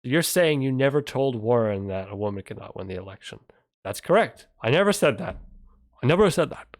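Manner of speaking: loud, hammed-up replay of the debate lines; mock debate shout. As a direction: shout the senator's denial in mockery. Mocking the debate exchange.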